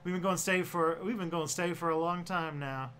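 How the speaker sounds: put-on lightly drawled Southern Midwestern accent; hint of Southern twang, Midwestern; Mister Beat. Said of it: "Southern Midwestern-y voice that, um, that Mister Beat ever did".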